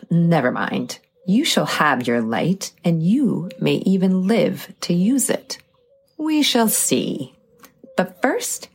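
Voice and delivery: put-on cackling old witch taunting. Baba Yaga speaks to girl.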